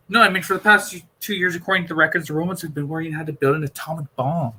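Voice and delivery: a lightly voiced Doctor breaking bad news. Doctor warning Perry about the Romans, grave.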